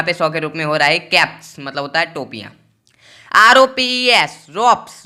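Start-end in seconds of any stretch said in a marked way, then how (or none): 3.3-4.3 letters आर ओ पी ई एस spaced out slowly; spelling it out slowly. Shown as a demonstration. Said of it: "रोप्स मतलब होता है रस्सी". 4.5-5.0 रोप्स with a clear s ending, rising; pronunciation demo. Shown as a demonstration. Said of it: "उसका उच्चारण स हो जाएगा".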